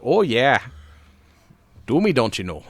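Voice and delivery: mock Midwest accent, teasing; hammed-up Midwest accent, flirty tease. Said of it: "like that Midwest accent".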